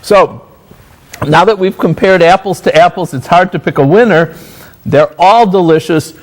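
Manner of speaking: talking through a mouthful of pie; words round a bite of food; mouth full. Real, not acted. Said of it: "I'm gonna try to close this with my mouth full".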